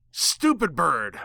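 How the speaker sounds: slow, high delighted recognition; excited shout. Acted. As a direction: narrator greets the bird voice, slow and high.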